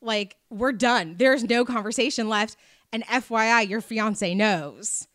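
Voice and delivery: retold cold brush-off; firm dismissal. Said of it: "And I'm just like".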